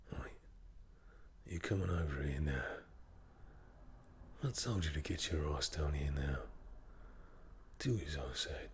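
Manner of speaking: bossy Cockney hard man; Jason Statham. Acted. Cockney tough ordering someone down here, menacing. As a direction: order them about in a Cockney accent. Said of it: "like proper Cockney".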